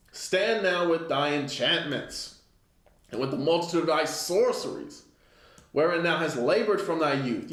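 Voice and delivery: measured, solemn scripture reading; a preacher reading from the pulpit. Acted. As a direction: read the verse like a preacher, slowed. Reads scripture aloud.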